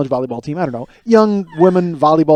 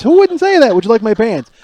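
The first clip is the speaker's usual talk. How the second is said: much higher and louder, indignant self-defense; defensive protest; 6 semitones higher, 5 dB louder than usual. Retold or imitated. Telling his wife why the joke was funny, high and indignant. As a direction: plead your case, worked up.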